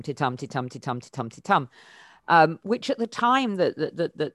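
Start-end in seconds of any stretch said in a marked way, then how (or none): 0.0-1.7 each "titum" weak on "ti", stressed on "tum"; iambic rhythm. Shown as a demonstration. Demonstrating Shakespeare's five-beat verse rhythm, "titum" stressed on "tum". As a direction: beat out "titum" five times, light-then-strong. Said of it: "a five titum rhythm".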